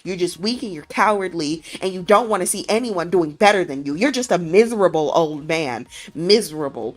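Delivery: rising loud tirade of contempt; telling him off. Retold or imitated. Wife berates the boss as a coward, building fury. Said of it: "She snaps. She starts telling him really about himself".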